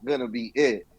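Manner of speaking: slow deadpan wife voice; wife, slow and flat. Retold or imitated. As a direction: drag it out like an unimpressed wife. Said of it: "she was like".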